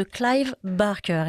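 Clive Barker said the English way, Clive as "claive"; a light English accent on the name. Shown as a demonstration. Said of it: "pardon pour mon accent anglais".

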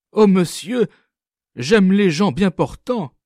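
vive, plus haute et plus forte; s'exclamer avec empressement; lively. A narrator's reading. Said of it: "Elle dit vivement". (elle répond vivement au notaire, voix haute et forte)

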